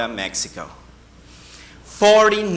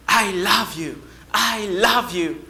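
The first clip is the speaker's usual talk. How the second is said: answering echo; 3 semitones higher than usual. Acted. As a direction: return the call as if from far away. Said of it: "the voice came back to him".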